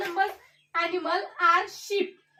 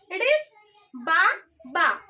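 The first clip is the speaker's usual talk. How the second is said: sheep bleat; 3 dB louder, faster than usual. Shown as a demonstration. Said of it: "which type of sound that a sheep makes?".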